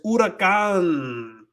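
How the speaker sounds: huracán drawn out slowly with a silent H; Spanish pronunciation. Shown as a demonstration. Streamer relishes a chat word, slow silent-H huracán. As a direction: say huracán stretched out, starting on the oo sound. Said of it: "it's not huracán like English".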